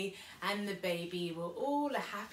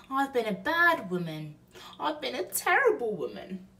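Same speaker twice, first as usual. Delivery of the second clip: repentant Betty; 7 semitones higher, 6 dB louder than usual. Acted.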